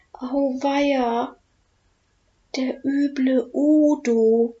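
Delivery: breathless frightened whisper, slow at the end. Acted. Oskar spots the dreaded eating dragon, whispering in fear. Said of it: "flüstert Oskar".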